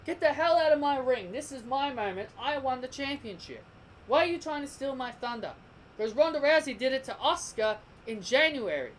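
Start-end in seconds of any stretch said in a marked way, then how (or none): 0.0-5.5 a rival barking to get out of her ring; imitated angry champion. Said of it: "should have told those two".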